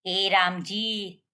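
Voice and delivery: drawn-out worried exclamation; slow dismayed sigh. Acted. Mother hearing the daughter's throat is sore, slow lament. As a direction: stretch it slowly, like a worried mother.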